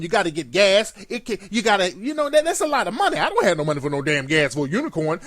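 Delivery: lightly voiced tweaking crackhead; hint of a crackhead ranting about unicorns; mock crackhead. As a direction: play a jittery crackhead seeing things. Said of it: "A crackhead sees a whole bunch of shit".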